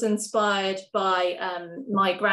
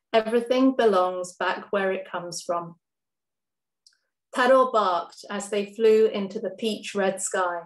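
measured, gentle poetry reading; poem reading. Acted. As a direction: read it like a spoken-word poem. Reads third poem aloud.

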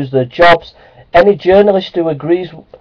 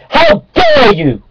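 slow, shrill, very high how dare you; high outraged shriek; slower than usual. Acted. Creationist ranting at laughing evolutionists, high slow outraged shriek.

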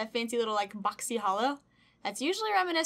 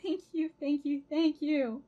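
close to tears; 5 semitones higher, slower than usual. Real, not acted. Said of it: "I'm not gonna cry".

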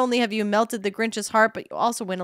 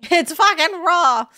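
slow, high, loud outraged celebrity chef bark; disgusted chef yelling at the food; Gordon impression; 8 semitones higher, 6 dB louder, slower than usual. Streamer voicing angry chef at bad dish.

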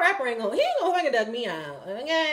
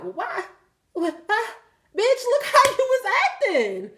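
mock whiny woman; 10 semitones higher than usual. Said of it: "and you like".

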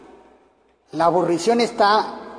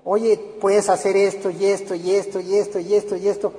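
upbeat parent; 4 semitones higher than usual. Retold or imitated. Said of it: "plantéenles la vida como que".

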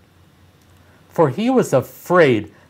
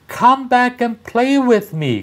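high little-rabbit voice calling out, a touch louder; 11 semitones higher, 3 dB louder than usual. Acted. Little rabbit calling after the strange rabbits, high pleading call. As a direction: call after them like a small toy rabbit, much higher than the narrator. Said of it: "called the little rabbit".

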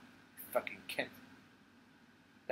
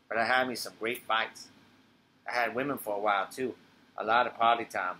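low man's voice; 2 semitones lower than usual. Acted. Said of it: "she becomes Ray".

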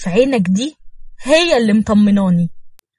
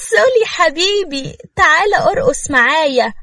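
put-on drunk wife coaxing her husband to dance with her; tipsy flirting; 6 semitones higher than usual.

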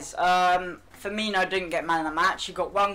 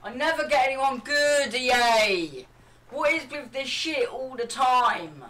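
raised, exasperated complaint; frustrated rant; 5 semitones higher than usual. Real, not acted. Gamer raging at bad pack.

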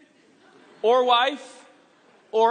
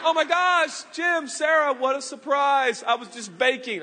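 mock surprise; 2 semitones higher than usual. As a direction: gush over the guests like a surprise. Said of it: "She's like".

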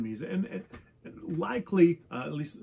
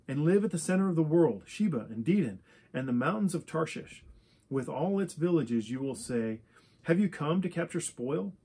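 measured read-aloud Bible passage, phrase by phrase; lightly formal public reading; scripture reading; 2 semitones higher than usual. Acted. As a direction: read out the prophecy in even, deliberate phrases with small pauses. Reads scripture aloud to listeners.

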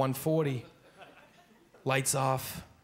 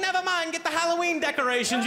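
higher, brisk dismissive mom; mom brushing off; 13 semitones higher than usual. Retold or imitated. Mom tells kid to fetch decorations, brushing off. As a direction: wave the kid off.

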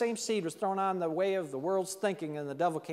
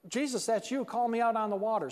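higher-pitched, lightly acted eagerness; excited plea; 5 semitones higher than usual. Peter calling to Jesus from the boat, mildly excited. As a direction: imitate an excited disciple calling out. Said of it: "He's so excited".

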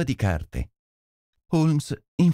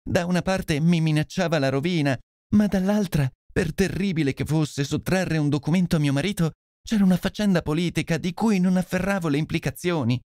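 higher, pleading voice of a frightened lady; anguished noblewoman; 7 semitones higher than usual. Acted. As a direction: beg the detective for help, voice raised high. Lady Hilda's anguished confession. (nobildonna angosciata che implora aiuto)

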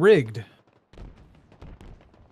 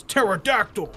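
pterodactyl call; 3 semitones higher than usual. Shown as a demonstration. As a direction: squawk the name as a cry. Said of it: "I know what a pterodactyl says".

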